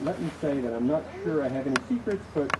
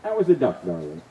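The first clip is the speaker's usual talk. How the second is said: first irritation; 3 semitones lower, 8 dB louder than usual. Acted. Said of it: "with the first signs of irritation".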